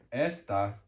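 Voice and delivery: "esta" as ES-tah; "esta" falling away after ES; stress on first syllable. Shown as a demonstration. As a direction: punch the opening of "esta". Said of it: "the first syllable".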